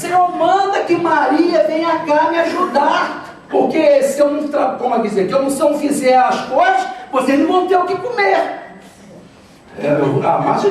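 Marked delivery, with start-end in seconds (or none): 0.0-8.4 high, hammed-up pleading; Marta. Overworked Martha asks Jesus for her sister's help, mock complaint. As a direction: argue the case in comic exasperation. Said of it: "E o sentido é esse".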